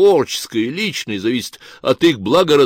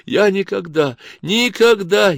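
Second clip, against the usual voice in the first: much higher whimpering cry; hysterical sobbing; 9 semitones higher, slower than usual. Acted. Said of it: "истерически всхлипывала Кларка". (истерически всхлипывая)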